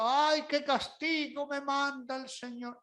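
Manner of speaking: mild self-pitying whine; a touch of mock martyr; mock complaint. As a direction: play the sulking victim. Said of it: "hasta que digo".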